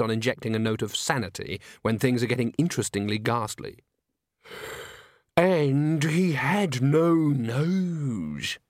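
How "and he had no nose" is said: very slow, higher, drawn-out delivery; theatrical old doom-monger; ghoulish old man. A narrator's reading. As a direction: press on with the ghastly tale. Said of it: "he went on, ignoring her".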